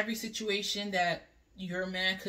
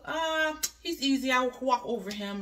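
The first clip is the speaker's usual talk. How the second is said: higher-pitched mimicked scoff; mock dismissiveness; 5 semitones higher than usual. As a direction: mimic someone writing him off as easy. Mimics listeners dismissing a soft man.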